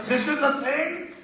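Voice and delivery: very high, slow, rising question; amazed disbelief. Retold or imitated. Drunk man learning strippers say yes, high drawn-out wonder. Acting out own amazed discovery.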